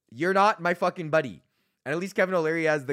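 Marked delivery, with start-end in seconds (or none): 0.1-1.4 louder, firm repeated shout; angry retort. Real, not acted. Repeating it at the ad, loud and angry. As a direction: hammer the point home.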